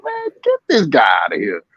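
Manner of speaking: shouted in disbelief; mock shout. Ringside heckle at a retreating fighter, shouted. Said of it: "I'm like".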